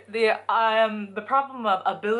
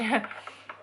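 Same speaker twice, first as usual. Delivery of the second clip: brief, soft chuckle; quick self-amused little laugh; small laugh; 2 semitones higher, 5 dB quieter than usual. Real, not acted. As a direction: laugh quietly at your own remark. Laughs at her own remark.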